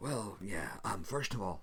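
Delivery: hushed, half-whispery voice with a gravelly edge. Voicing Darpanna answering a crewmate: Darpanna's quiet, half-whispery, gravelly voice. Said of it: "very quiet, whispery, sort of gravelly voice".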